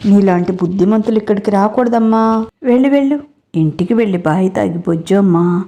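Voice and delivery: put-on mild taunting, like talking down to a child; lightly voiced sneer, read mostly plain; mocking. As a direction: tease him lightly, a touch of scorn. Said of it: "అని ఎగతాళి చేస్తుంటే".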